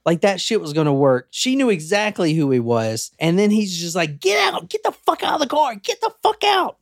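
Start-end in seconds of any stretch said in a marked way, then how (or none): 4.2-6.8 very high-pitched mock yelling; retold carjacker yell. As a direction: act out frantic orders, pitched way up. Retold carjacker ordering woman out.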